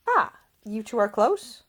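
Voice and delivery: put-on high, lilting young lady; Ida voice. A narrator's reading. Ida's voice.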